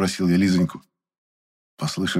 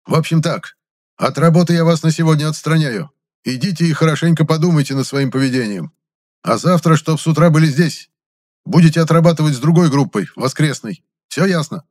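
loud, higher, commanding voice; stern orders; 8 semitones higher, 5 dB louder than usual. A narrator's reading. The boss suspends Kapustin, stern. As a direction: lay down the punishment firmly.

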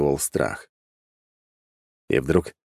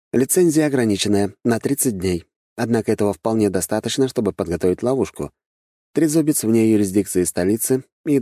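lightly voiced servant, a little higher; a henchman briefing his master, slightly raised pitch; reporting servant; 4 semitones higher than usual. (слегка обозначенный голос докладывающего слуги)

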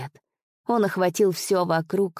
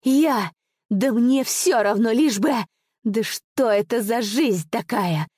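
desperate squeak; 3 semitones higher than usual. Acted. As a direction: squeal it out in despair. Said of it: "голос его прозвучал отчаянным писком".

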